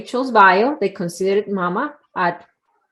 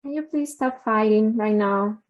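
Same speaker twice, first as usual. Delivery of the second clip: 1 softer polite request. Retold or imitated. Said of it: "but with a different tone".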